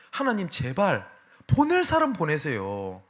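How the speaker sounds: slow, drawn-out mock begging; imitated plea. Moses pleading with God after his excuses fail, drawn-out imitated plea. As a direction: beg wearily, stretching the words.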